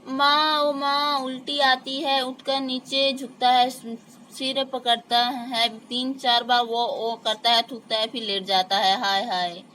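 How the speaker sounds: high, pained calls for mother; groaning in pain. Acted. Sick boy calling mother in pain.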